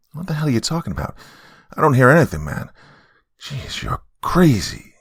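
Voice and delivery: high, exasperated disbelief; incredulous. Acted. Martel doubting friend's warning, incredulous.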